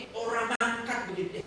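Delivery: nagging line in Ngapak Javanese, "mangkat" for leaving; Ngapak Javanese nag. Retold or imitated. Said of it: "Bahasa ngapak begitu ya".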